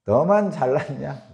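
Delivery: drawn-out mocking jab; slow sarcastic question; slow sneering taunt. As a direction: sneer it slowly, as a put-down. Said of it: "뭐 이렇게".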